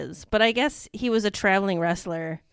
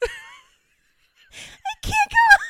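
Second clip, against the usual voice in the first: high, loud laughing words; laughing hard; 7 dB louder, much faster than usual. Real, not acted. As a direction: gasp it out through laughter. Laughing too hard to speak.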